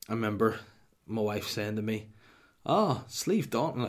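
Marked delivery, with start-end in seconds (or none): 2.6-3.9 high, drawn-out swooping put-on voice; mocking wife's voice. Husband imitating his wife naming a mountain, mocking swoop. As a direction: swoop up and down on each word, teasingly. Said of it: "that's the way she speaks".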